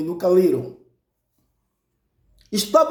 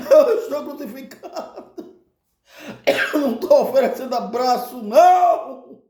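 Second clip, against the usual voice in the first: Jesus esbravejando; 7 semitones higher than usual. Retold or imitated. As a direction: rant in exasperation, half amused. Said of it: "Jesus começava a esbravejar". (bronca cômica e indignada)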